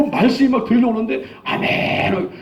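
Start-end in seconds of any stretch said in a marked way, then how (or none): 1.4-2.3 high, drawn-out amen; retold fervent amen. Young believer answering the pastor's sermon, fervent amen. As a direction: cry out amen eagerly. Acting his eager response to preaching.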